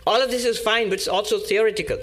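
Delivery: imitating a worked-up woman pushing back; indignant retort. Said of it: "this lady who was fairly indignant".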